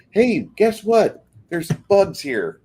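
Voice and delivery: hammed-up ant announcing the bugs; mock ant call. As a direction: call out like a gleeful ant spreading news. Ants alerted by the concrete.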